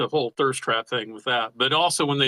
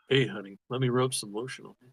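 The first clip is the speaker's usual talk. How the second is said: sleazy guy voice; 3 semitones lower, 7 dB quieter than usual. Retold or imitated. Mock guy offering lotion.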